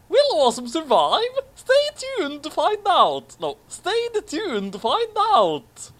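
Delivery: high, loud hammed-up teaser announcer; over-the-top next-time narrator; mock trailer voice. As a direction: tease the cliffhanger like a cheesy TV promo. Mock cliffhanger teaser of fanfic.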